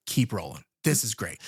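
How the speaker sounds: low, flat and pleased; gleeful crew, voice dropped low; callous film crew, low. Retold or imitated. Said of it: "they're like".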